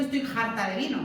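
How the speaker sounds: "harta" said with an aspirated H, like "jarta"; H aspirada andaluza. Shown as a demonstration. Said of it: "esa H se acaba aspirando". ("harta" con hache aspirada, como "jarta")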